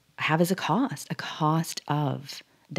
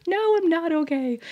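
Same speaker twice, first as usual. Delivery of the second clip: laughing reply; 13 semitones higher than usual. Retold or imitated. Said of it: "she was like".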